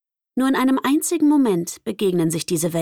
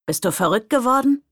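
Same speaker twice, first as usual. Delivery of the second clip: higher, louder alarmed call; calling after her; 5 semitones higher, 3 dB louder than usual. A narrator's reading. Daniel calls after Lizzie running to the door, alarmed. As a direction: shout after her in disbelief. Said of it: "rief Daniel noch".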